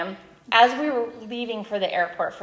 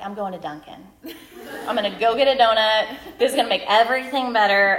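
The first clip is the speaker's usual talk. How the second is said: laughing donut fantasy; 6 dB louder, faster than usual. Retold or imitated. Comic coping with donuts.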